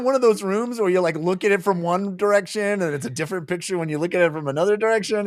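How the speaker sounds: high, fast and eager; rushing to explain the trick; excited retelling. Retold or imitated. Friend retelling the book scene, high and fast. Excitedly describing the magic-eye room.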